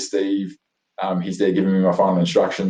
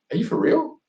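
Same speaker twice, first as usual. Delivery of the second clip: retold protest; 10 semitones higher than usual. Retold reaction to karate being cut.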